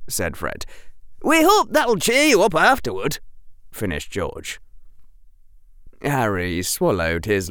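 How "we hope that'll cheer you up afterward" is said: high, bright teasing twin; playful schoolboy teasing; cheerful twin voice. Acted. George voiced in story.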